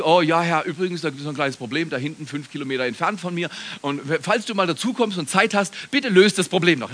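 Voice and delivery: quick, offhand request to God; mock casual prayer. Preacher parodying someone praying without pleading, casual and hurried. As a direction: rattle it off as a half-hearted aside. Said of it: "die kommen nicht".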